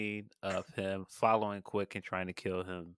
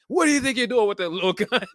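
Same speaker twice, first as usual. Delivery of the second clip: high, louder mocking gangster while laughing; giggly high taunt at a tiny gun; 11 semitones higher, 6 dB louder than usual. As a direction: taunt him, laughing through it. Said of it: "keeps pulling out the one".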